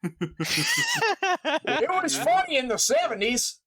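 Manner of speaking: high, slow, laughing through it. Real, not acted. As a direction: laugh the line out. Laughing aside after cop joke.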